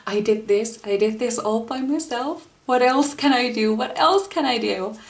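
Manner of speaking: mildly excited, pitch lifting; light burst of can-do pride; unstoppable feeling. Acted. Tarot reader voicing the feeling of self-made success, mildly unstoppable. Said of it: "There's this feeling, like, you, you feel unstoppable".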